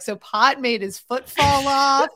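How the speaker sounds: high, loud, confused question; baffled question. Retold or imitated. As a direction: ask it totally baffled. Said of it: "He's like".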